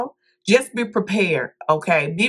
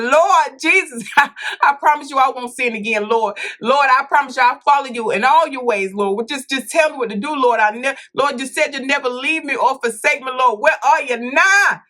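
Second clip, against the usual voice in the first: pleading prayer; 5 semitones higher than usual. Retold or imitated. On the toilet, begging the Lord, high and desperate. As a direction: cry out to the Lord for mercy.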